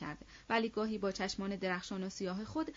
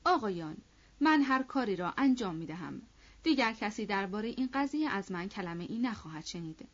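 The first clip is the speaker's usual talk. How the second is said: pleading. Acted. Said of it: "راستوف با تضرع گفت".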